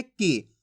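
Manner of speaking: brief, low falling "की"; "की" kept short as a reading model; short i sound. Shown as a demonstration. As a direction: say "की" with a short vowel, dropping in pitch. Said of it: "इसके उच्चारण में कम समय लगेगा".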